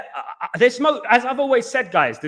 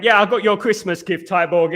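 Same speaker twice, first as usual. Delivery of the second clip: puffing after the stairs; breathless from carrying a big box; out of breath. Real, not acted. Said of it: "that's why I'm out of breath".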